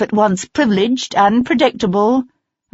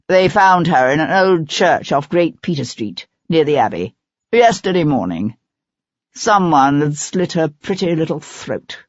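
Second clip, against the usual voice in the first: lightly voiced arrogant actor, unmoved; a hint of a bitter ex-lover reporting a death; cold, resentful actor. Gordon's held voice.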